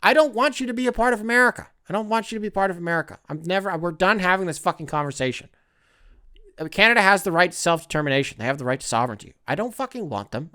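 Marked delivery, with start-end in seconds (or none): 0.0-5.5 higher, fast fired-up rant; heated rant. Real, not acted. Ranting at Canadian commenters, fired up and higher. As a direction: tell them off, pitch climbing.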